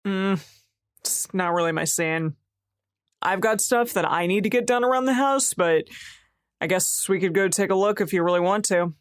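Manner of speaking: reluctant, lightly passive-aggressive concession. Acted. Partner busy with housework answers an invitation, passive aggressive. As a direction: agree grudgingly, with a touch of passive aggression. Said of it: "super passive aggressively being like".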